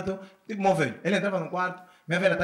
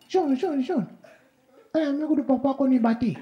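mock calling out; 10 semitones higher than usual. Calling the son.

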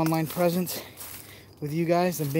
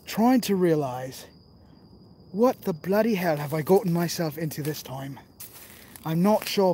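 put-on London accent. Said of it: "London voice".

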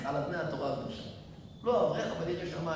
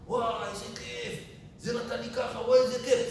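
higher, lightly voiced happy orphan; delighted orphan; 7 semitones higher than usual. Orphan opening the envelope, lightly voiced delight. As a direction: gush like a thrilled kid.

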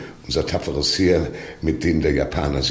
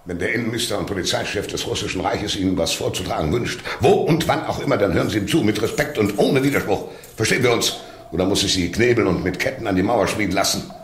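raised, much higher barking command; furious outburst; 6 semitones higher, 3 dB louder than usual. Acted. The minister shouts down the prisoners who interrupt him, furious. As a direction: threaten them into silence.

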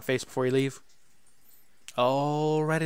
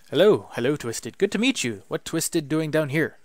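louder, eager little goblin greeting; excited goblin; 2 semitones higher, 7 dB louder than usual. Acted. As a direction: bounce through the hello like a giddy goblin. Goblin Gary voiced.

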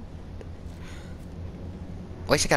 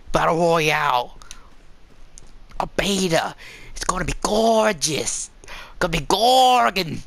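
hammed-up Australian twang; Australian accent. Gamer talking up the battle royale beta, mock Australian. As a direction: put on a playful Aussie accent. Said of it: "I wanna just speak Australian".

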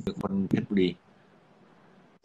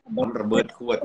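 high, startled repeat of the words; astonished echo; 13 semitones higher than usual. Real, not acted. Host echoing his cohost's bomb story, astonished. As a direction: echo it back in disbelief.

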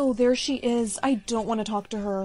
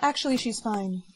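dazed echo; 3 semitones lower than usual. Acted. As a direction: repeat it as if under a spell. Mom repeats under mind control.

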